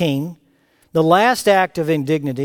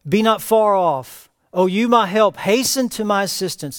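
raised, pleading call to God; plaintive cry; 5 semitones higher than usual. Acted. Preacher voicing the psalmist's plea to God, plaintive cry. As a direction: cry out for God to come near. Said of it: "introduced by the plaintive cry".

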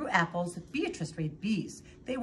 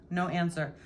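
usual speaking voice

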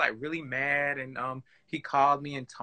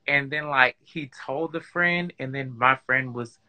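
muffled speech, words dampened; 2 semitones lower than usual. Real, not acted. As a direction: talk as if through a covered mouth. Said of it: "this story is kinda muffled".

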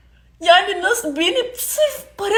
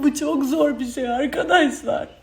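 sobbing. Real, not acted. Sobbing lament, crying heard.

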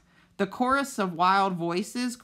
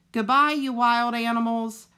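a raised, carrying farewell; lifted goodbye to the crowd; calling out goodbye; 4 semitones higher, 4 dB louder than usual. A narrator's reading. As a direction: call it out across the mist. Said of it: "Roz's voice echoed through the gray mist".

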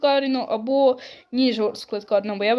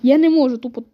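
cracking up; 2 semitones higher, 7 dB louder than usual. Real, not acted. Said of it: "тупо так тону від цього магнітофона".

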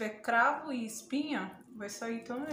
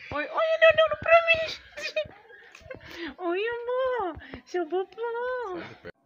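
very high, slow cooing with a teary laugh; 12 semitones higher, 8 dB louder, slower than usual. Real, not acted. Grandma cooing as the baby stares at her, high teary baby talk.

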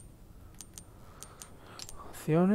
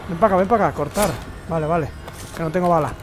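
raging gamer; 4 semitones higher than usual. Real, not acted. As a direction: yell at the game in rage. Losing fight, shouting curses.

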